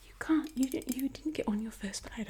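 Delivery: scolding Italian agent in a whisper; Italian accent. Retold or imitated. Agent berating her, in a loud Italian accent. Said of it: "gotta change to the Italian accent".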